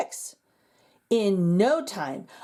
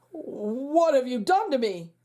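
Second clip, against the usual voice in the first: croaked. Acted. Frog principal confronts the magician, mildly croaked. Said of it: "croaked Mister Bundy".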